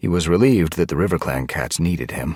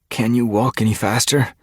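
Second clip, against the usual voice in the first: higher and louder, pressing; urgent; 8 semitones higher, 5 dB louder than usual. A narrator's reading. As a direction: hurry them along anxiously. Urgent in enemy territory.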